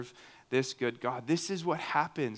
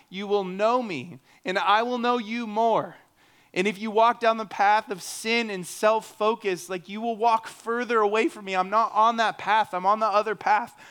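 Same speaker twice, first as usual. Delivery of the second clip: raised, emphatic appeal in God's words; lightly voiced God; 5 semitones higher, 4 dB louder than usual. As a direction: lay out the path as an earnest God, pitched up. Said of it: "he's perfectly laid out".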